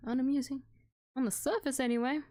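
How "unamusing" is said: Unamusing lifted higher and lighter. Shown as a demonstration. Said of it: "repeated word differently".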